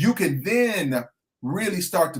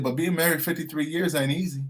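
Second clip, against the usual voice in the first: put-on Southern accent. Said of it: "he's got this Southern accent".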